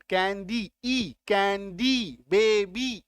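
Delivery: "कैंडी" and "बेबी" with drawn-out ee endings; final ee sound. Shown as a demonstration. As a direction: isolate "ई", then stretch it ending "कैंडी". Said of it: "ई का sound".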